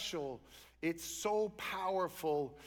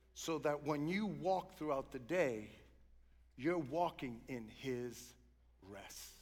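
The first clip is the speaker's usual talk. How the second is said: gently lowered pulpit voice; hushed sermon; 3 semitones lower than usual. Real, not acted. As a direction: let it settle down to a near-hush on the last word.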